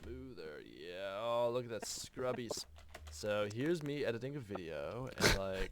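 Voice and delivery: skater surfer voice. Acted. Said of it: "maintain my skater surfer voice".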